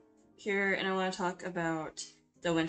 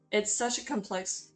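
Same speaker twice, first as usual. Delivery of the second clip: voice cracking; 3 semitones higher than usual. Real, not acted. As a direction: voice cracks mid-phrase. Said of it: "my voice cracked".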